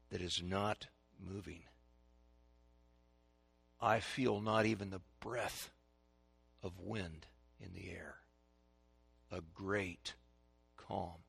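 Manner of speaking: very soft, low, spaced-out words; quiet, hushed description with long pauses; hushed awe. Acted. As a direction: let the voice sink into stillness. Painting a great, still calm.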